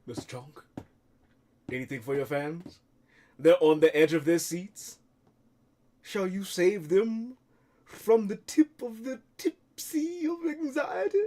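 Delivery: interviewer. Acted. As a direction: prompt the star for a word. Interviewer voice again.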